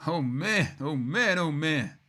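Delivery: gush, overwhelmed by what you see; gushing admiration. Real, not acted. Streamer admiring the car's rear, gushing.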